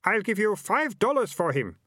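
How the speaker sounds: high, loud hawker voice; a pushy market trader voice; gruff townsman. A narrator's reading. Townsman character voice.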